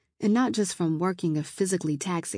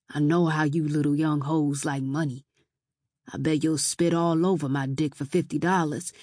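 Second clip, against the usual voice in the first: lightly voiced leering drunk; a hint of a sleazy come-on; drunk man, propositioning; 3 semitones lower than usual. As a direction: slide down into a lower, insinuating offer.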